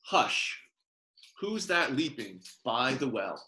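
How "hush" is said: breathy whispered shush; a whispered "Hush". Acted. Reading lullaby to baby.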